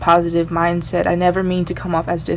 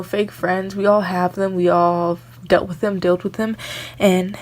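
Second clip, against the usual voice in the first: usual speaking voice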